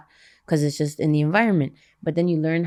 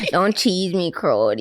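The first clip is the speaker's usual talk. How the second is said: mock Canadian accent, falling away at the end; playful Canadian impersonation; Canadian slang accent; slower than usual. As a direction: imitate Canadian slang talk. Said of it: "there's an accent in Canada".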